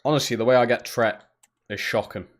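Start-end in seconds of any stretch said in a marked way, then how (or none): 0.0-1.2 Tret said as one short vowel, rhymes with bet; tret, not treated; saying tret. Real, not acted. Streamer insisting to chat it's tret. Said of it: "That is literally how you say it".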